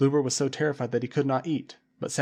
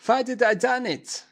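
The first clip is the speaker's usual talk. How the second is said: much higher, louder, slow wail; 11 semitones higher, 6 dB louder, slower than usual. A narrator's reading. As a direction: wail it out in despair. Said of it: "he wailed".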